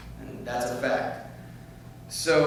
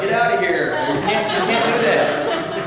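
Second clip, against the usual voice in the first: imitating police; 7 semitones higher, 7 dB louder, slower than usual. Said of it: "they'd be like".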